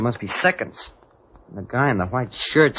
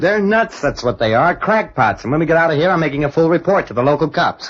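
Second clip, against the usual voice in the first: indignant rant; 4 semitones higher than usual. Acted. Larry rants about their captors.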